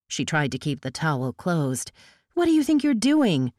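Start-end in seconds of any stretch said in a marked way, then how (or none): 2.3-3.5 raised, higher outraged demand; outraged shout. Acted. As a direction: confront him, loud and shocked. Towel pulled open, outraged.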